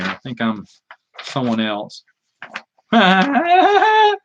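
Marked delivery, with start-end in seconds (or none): 2.4-4.2 a burst of high laughter. Real, not acted. Laughing at a comic he drew for friends, high laugh. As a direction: crack up at the picture.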